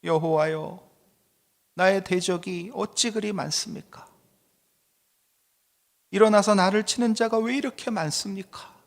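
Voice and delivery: plaintive plea, rising in pitch after a subdued opening; sighing lament. Acted. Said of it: "한숨 나오는 그런 시".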